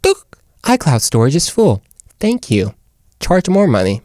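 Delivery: mock computer alert voice; computer notification. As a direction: imitate a nagging storage pop-up. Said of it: "Where your computer's like".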